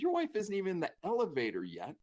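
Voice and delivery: retold exasperated rant; mock cursing. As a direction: scold a friend, half laughing. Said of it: "they're cursing him".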